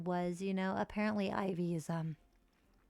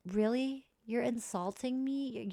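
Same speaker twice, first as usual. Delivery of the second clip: mock offended gasp; 3 semitones higher than usual. Reacting to sim insult.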